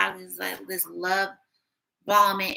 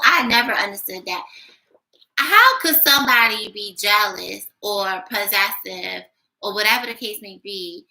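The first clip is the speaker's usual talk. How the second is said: indignant rant; 6 dB louder than usual. Real, not acted. Ranting about jealous exes.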